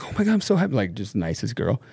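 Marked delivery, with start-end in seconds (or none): 0.0-0.7 high, bubbly imitation of a happy sister; gushing sister. Sister congratulating her brother on his baby, high gushing voice. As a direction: squeal it out sweetly, like the nicest girl. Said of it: "And she's like".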